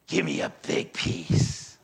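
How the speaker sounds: low, slow, menacing growl of a tough biker; a big mean biker demanding food; gruff biker demand. Pretend. Mean biker leader growling at Philip for food, low and slow.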